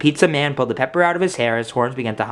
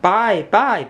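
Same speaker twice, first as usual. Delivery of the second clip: put-on toddler bawling; 8 semitones higher than usual. A narrator's reading. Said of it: "bawled baby Joshua screamed".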